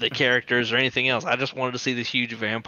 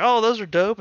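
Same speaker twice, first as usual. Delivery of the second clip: impressed robot voice; 9 semitones higher, 5 dB louder than usual. Retold or imitated. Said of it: "the trucks are like".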